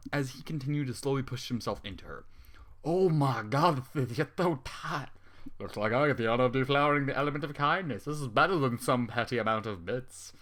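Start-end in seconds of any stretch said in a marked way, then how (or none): 2.8-10.3 a mild, slowed-down hint of excitement; lightly voiced, leering and slow; understated eager villain, drawn out; excitedly. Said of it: "the cult says excitedly".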